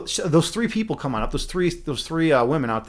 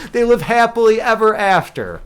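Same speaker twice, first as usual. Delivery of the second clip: laughing sign-off; 6 semitones higher, 6 dB louder than usual. Real, not acted. Teller cracks up at the ending.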